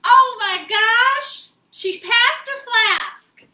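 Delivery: high, loud mock-scandalised gasp; granny scolding playfully, high and slow; shocked granny. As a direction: catch her friend red-handed. Granny spots hidden flask.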